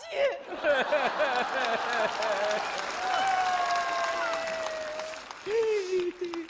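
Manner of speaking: a long, very high cackling laugh. Real, not acted. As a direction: keep laughing high and helpless. 岳父长时间大笑. (尖声长笑)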